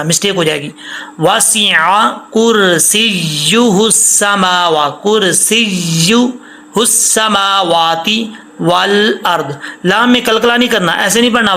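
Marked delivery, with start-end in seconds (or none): 1.2-9.5 very slow, every letter clear; slow recitation. Shown as a demonstration. Teacher models the correct verse, slow recitation. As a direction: recite carefully, stretching each word. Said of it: "کرسی السماوات نہیں پڑھنا".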